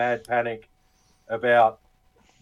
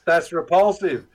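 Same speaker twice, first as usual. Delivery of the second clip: slow, higher, laughing through it; laughing mock disgust; 6 semitones higher than usual. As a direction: fake outrage while cracking up. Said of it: "but then I was like".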